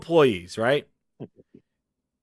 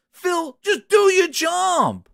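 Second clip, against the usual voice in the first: angry boss shout; 9 semitones higher, much slower than usual. Retold or imitated. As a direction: drag each word out in anger. Boss yells at Phil.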